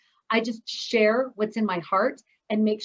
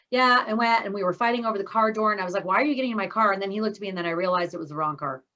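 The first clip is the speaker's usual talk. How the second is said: punchless storytelling; 2 semitones lower, faster than usual. Shown as a demonstration. Speaker showing how not to tell a story, rushed and punchless. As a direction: rattle it off quickly with no build or punch. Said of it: "Do not tell a story".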